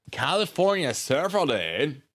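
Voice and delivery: California surfer dude. Shown as a demonstration. Streamer showing off the list of terrible voices, California surfer dude. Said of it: "the voices we have are".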